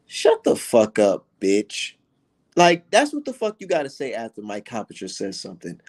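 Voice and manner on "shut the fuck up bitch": slow, punched put-down; slow dismissive shutdown. Pretend. Streamer telling a boxing analyst off, slow contempt. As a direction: spit it out slowly with contempt. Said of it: "this is what the fuck you gotta say".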